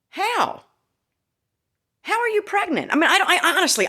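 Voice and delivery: high incredulous laugh through the question; laughing disbelief. Real, not acted. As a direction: laugh out how, can't believe it. Disbelief at fast postpartum pregnancy.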